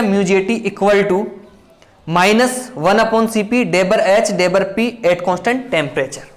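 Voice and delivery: slowly spelling out a formula; slow dictation. Shown as a demonstration. Teacher reading a formula for students to copy, slow.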